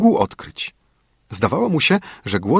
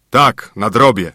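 slow, mildly cross and louder; angry grumble; 5 dB louder than usual. A narrator's reading. Father doubting his son, slow angry grumble. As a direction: grumble it with understated anger. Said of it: "pomruknął ojciec z gniewem".

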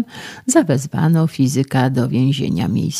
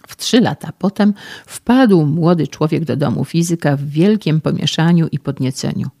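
usual speaking voice

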